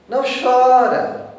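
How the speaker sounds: loud, slow, scolding imitation of a consoler; scolding don't cry. Imitating someone telling a mourner to stop crying, loud and slow. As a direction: bark the order like a tactless comforter. Mocking people who tell others not to cry.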